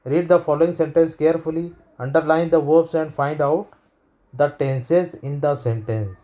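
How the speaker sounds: very slow instruction reading; slow textbook read. Shown as a demonstration. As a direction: read the exercise instruction slowly for the class. Reads exercise instruction. (बहुत धीमे निर्देश पढ़ना)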